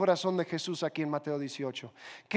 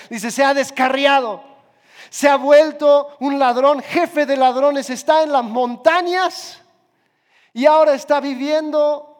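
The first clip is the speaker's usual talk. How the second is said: louder and higher, slowing on the bad news; loud lament; 3 semitones higher, 5 dB louder than usual. Church leader tells Juan the youth is lost, loud lament. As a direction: cry out the news as a grieving elder.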